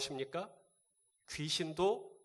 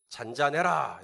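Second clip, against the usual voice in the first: firm, louder command to the storm; mild rebuke; 5 dB louder, slower than usual. Retold or imitated. Jesus rebuking the wind, firm command. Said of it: "이렇게 꾸짖으십니다".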